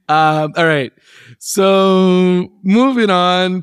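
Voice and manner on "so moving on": slow, laughing through words; giggling while changing topic. Real, not acted.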